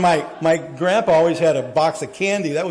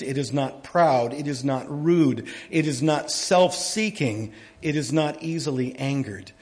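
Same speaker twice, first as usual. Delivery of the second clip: slow, measured reading of Scripture; solemn Bible reading from the pulpit. Acted. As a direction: read each line deliberately, with weight. Reads 1 Corinthians 13 aloud.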